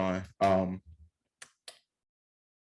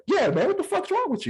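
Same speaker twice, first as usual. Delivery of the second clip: much higher, louder mock crowd jeer; 4 dB louder than usual. Deli crowd mocking the tourist, high-pitched. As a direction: jeer like a fed-up deli line. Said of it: "and everybody's like".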